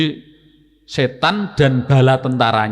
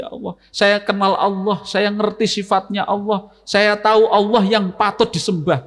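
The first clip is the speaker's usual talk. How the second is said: raised-pitch, thankful prayer, lightly acted; mildly acted prayer of gratitude, higher pitched; happy grateful prayer; 5 semitones higher than usual. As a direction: thank God as if praying with a smile. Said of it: "Senyumnya itu karena apa?".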